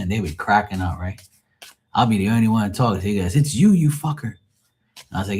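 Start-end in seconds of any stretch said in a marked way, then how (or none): 3.3-4.3 mock-angry Scouse foreman, higher pitch; Liverpool accent. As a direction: accuse in an imitated Liverpool accent. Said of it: "used to get so pissed at me".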